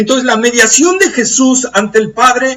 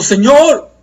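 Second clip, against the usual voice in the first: cry of anguish; 3 semitones higher than usual. Retold or imitated. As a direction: call out "Señor" in pain, lightly acted. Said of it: "es un grito de dolor". (grito de angustia suave)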